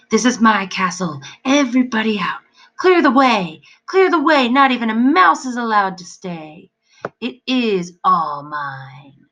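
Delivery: high, loud, thin demon shriek. A narrator's reading. Demon ordering everyone out of castle, shrieking. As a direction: screech it like a furious little imp. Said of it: "high voice calling in the darkness".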